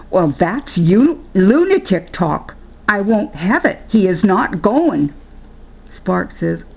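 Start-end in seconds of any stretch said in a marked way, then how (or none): 0.1-5.1 a hint of a stern old woman putting her foot down; flat refusal, she won't budge; stern grandma.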